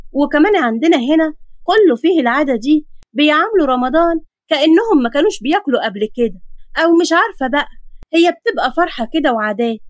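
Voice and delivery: a hint of an eager neighbourhood girl; chatty local girl. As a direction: explain local customs with animated pride. Voices the girl chatting in the queue.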